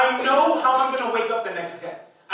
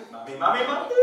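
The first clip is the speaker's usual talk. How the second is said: put-on annoying kid calling mom; 3 semitones lower than usual. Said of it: "Made me wanna do it even worse".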